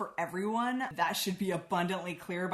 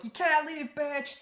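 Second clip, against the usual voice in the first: high, loud snarling yell; a retold rage-filled command; furious shout; 9 semitones higher, 5 dB louder than usual. Pestilence stops Sarah leaving.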